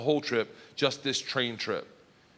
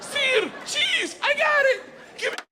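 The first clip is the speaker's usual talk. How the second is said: very high, loud eager yell; squeaky high excited shout; 3 dB louder, slower than usual. Retold or imitated. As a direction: shout like a keen student answering. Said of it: "I was like".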